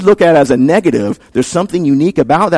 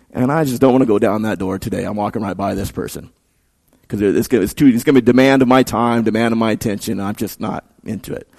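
low, softer, dismissive inner voice; quietly opt out, trailing down low; dismissive brush-off; 5 semitones lower, 5 dB quieter than usual. Acted. Churchgoer dodging a needy person, low dismissive mumbling to self.

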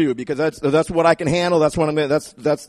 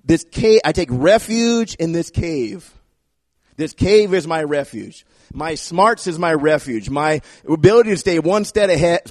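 self-reliant boast; 3 dB louder than usual. Pretend. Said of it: "He doesn't say".

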